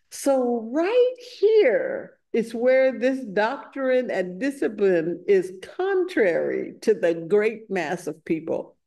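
slow, forceful opening that settles down; emphatic scripture recitation. Acted. Householder challenges the Buddha on his doctrine, emphatic. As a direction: declare it point by point.

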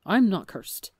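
loud, urgent denial; loud protest. A narrator's reading. Phil pleading with the suspicious crew, loud protest. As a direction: make them stop and listen.

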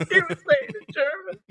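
laughing mock repeat. Mocking German accent joke.

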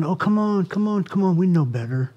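tender nudge, come on come on; humble, tender. Shown as a demonstration. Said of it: "in such a humble, tender way".

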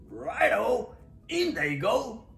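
high, loud, chirpy go-ahead; eager agreement. A narrator's reading. Dingo lets Echidna add bugs, eager. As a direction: sing out a keen go-ahead.

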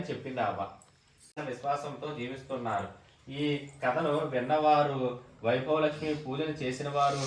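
read-aloud cadence, phrase by phrase; devotional story reading. Real, not acted. Devotee reading the Vaibhava Lakshmi vrata story, measured narration. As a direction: recite the vrata tale from the book.

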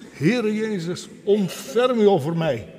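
high, loud call for mercy; crying out. Acted. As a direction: beg aloud like a blind beggar. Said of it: "En hij begint te roepen".

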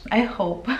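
laughing lightly through it; a shy little laugh on the words; sheepish giggle while hoping. Real, not acted. Hopeful aside ending in laugh.

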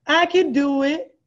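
pumped-up pep talk to the viewers; self-affirmation. Shown as a demonstration. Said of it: "you get up out the bed and you say".

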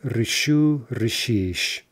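решу and решишь stressed on the last syllable; end stress. Shown as a demonstration. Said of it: "in stress".

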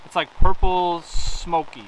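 slow, loud and delighted; excited. Real, not acted. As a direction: savor it, thrilled. Delighted at amethyst.

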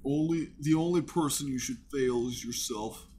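lightly voiced creepy killer; a hint of a menacing movie villain; Buffalo Bill voice. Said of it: "Buffalo Bill voice".

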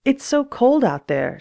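high, slow complaint; whining about the cold. A narrator's reading. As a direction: stretch it out high and plaintive.

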